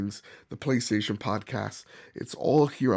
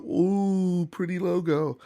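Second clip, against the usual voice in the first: higher cooing over a logo; mock dazzled gasp; 5 semitones higher, slower than usual. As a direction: coo like you're starstruck. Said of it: "not out of the".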